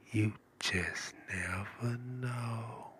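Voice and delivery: very slow and soft; slow drawn-out catchphrase. Acted. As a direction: drag each word out slowly. Catchphrase repeated.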